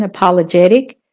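American "apologetic" with flapped t; American pronunciation. Shown as a demonstration. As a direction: say "apologetic" the American way, stressing JET. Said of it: "It's the American".

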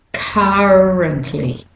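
currently slowly, British or Australian "uh" in CUR; British or Australian currently, first vowel drawn out without R; British or Australian accent. Shown as a demonstration. Teacher modelling for learners, British or Australian accent on currently. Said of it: "saying it with a British and Australian".

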